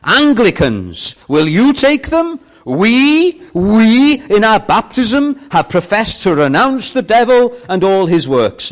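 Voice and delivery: loud, high back-and-forth between auctioneer and replies; voicing the denominations. Preacher plays auctioneer and churches, loud and high. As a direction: act the auction, answer for each church.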